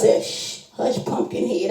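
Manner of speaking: soft unvoiced hush; hushing whisper. Friend quieting the teller, a soft unvoiced whisper.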